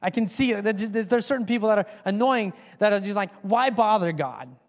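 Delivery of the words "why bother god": mocking voice. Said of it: "I'm doing that voice".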